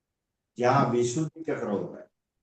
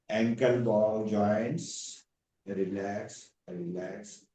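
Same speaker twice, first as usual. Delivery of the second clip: guided relaxation. Acted. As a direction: ease the class down limb by limb. Yoga teacher leads shavasana relaxation.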